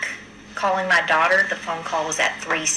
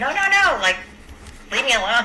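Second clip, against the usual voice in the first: retold panicked refusal; 7 semitones higher than usual. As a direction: push them off in mock fright. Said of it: "I was like".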